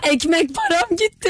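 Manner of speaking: high squealing laugh like a gull; seagull laugh. Real, not acted. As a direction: laugh high and shrill through the words. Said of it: "Gülüşün martı gibi şu an".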